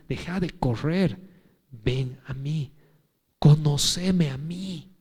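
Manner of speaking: soft, slow, hushed call to come; tender divine plea. Acted. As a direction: plead gently, as God to a tired child. Voicing God's plea softly. (ruego suave y lento, casi en susurro)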